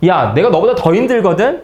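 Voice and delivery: acted-out indignant outburst; mock yelling. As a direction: raise your voice at a friend, mildly. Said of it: "친구한테 소리를 치겠죠".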